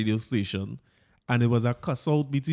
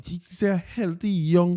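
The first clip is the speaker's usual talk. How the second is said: ordinary delivery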